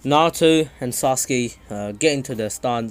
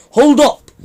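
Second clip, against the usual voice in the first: much higher and louder, startled yell; alarmed shout; 13 semitones higher, 11 dB louder than usual. Acted. Naruto startled by Sasuke's Amaterasu, alarmed shout. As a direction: cry out as the black flames hit.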